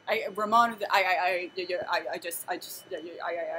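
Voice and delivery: imitating someone tripping over words; excited stammering. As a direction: stumble and restart, unable to get words out. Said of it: "he gets so excited".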